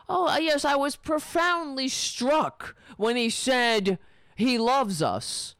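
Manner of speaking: lightly put-on reporter voice; mock sincere reporter. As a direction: parody a fawning news anchor. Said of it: "let's pretend that Twitler is sincere".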